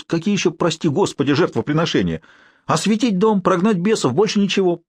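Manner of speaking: put-on an anxious old man explaining himself; old caretaker. A narrator's reading.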